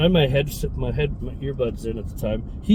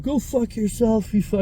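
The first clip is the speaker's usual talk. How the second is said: mock old man curse; 8 semitones higher than usual. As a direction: do the cranky old man swearing back. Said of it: "He's like".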